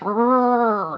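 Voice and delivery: "R." said as a long, over-articulated English R with the tongue pulled back; teacher drawing out "R." for learners to copy; exaggerated R sound. Shown as a demonstration. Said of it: "be super obvious with my face".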